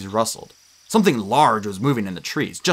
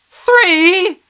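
higher, louder shocked question; alarmed; 10 dB louder than usual. A narrator's reading. Annabeth seeing three scorpions appear, alarmed. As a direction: disbelief at the odds.

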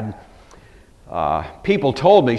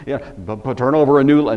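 usual speaking voice

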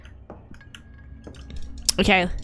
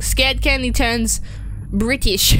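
put-on British accent; slower than usual. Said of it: "I always turn British when I get scared".

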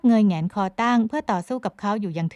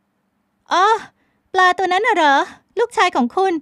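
high, loud, dismissive questions; an irritated woman mocking talk about his fish; curt young woman; 11 semitones higher, 8 dB louder, slower than usual. A narrator's reading. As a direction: brush him off with scorn. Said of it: "เธอถามน้ำเสียงสะบัด".

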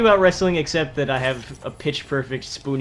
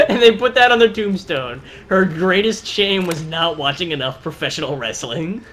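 laughing. Real, not acted. Laughing mock eulogy.

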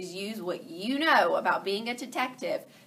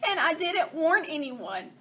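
hen voice; 7 semitones higher, 5 dB louder than usual. Acted. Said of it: "Chicken Little said".

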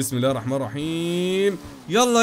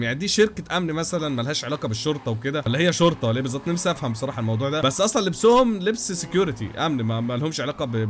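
normal talking voice

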